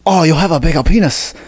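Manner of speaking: a quick put-on Asian accent, lightly hammed. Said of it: "Let's hear a maga Asian accent".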